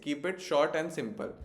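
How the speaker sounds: slow, word by word acronym; teacher dictating an acronym slowly; slow dictation. Shown as a demonstration. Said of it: "acronym याद रखना है".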